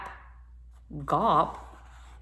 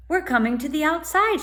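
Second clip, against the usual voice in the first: high, excited cry; excited shriek; 8 semitones higher, 4 dB louder than usual. A narrator's reading. Stella shrieks to Tom, seeing daylight, high and excited. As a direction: burst out with delight at the light. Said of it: "she shrieked".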